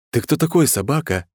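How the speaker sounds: mock-tender question, starting high; affectionate inquiry. A narrator's reading. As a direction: ask it sweetly. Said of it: "ласково поинтересовался я". (ласково, с вопросом)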